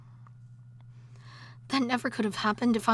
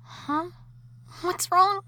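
startled concern; 6 semitones higher, slower than usual. Acted. Wife alarmed as her husband panics. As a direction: react with sudden alarm.

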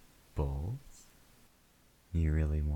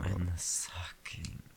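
whispering; 4 dB quieter than usual. Acted. Intimate whispered roleplay.

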